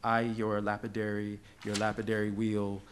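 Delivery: slow, measured verse recital; poem reading. Acted. Poet reads a colleague's post-colonial love poem to an audience, slow recital. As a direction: linger on each phrase of the poem.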